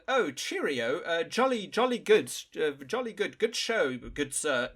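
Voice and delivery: mock Queen's English accent, high and loud; posh British caricature. Podcaster mocks British officers in a Queen's English accent. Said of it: "Queen's English accent".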